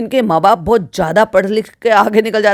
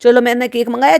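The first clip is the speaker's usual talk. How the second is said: higher-pitched coaxing imitation; lightly voiced pampering grown-up; mimicking indulgent adult; 4 semitones higher than usual. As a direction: humour a child, in mockery. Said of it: "तो वो ये कहेंगे".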